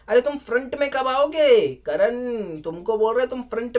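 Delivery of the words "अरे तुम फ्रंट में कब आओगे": louder, higher scold, half-acted host; imitating the host's raised challenge; mock scolding. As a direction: push Karan to step up, raised voice. Host scolds Karan, first take.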